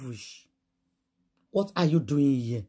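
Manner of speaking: normal talking voice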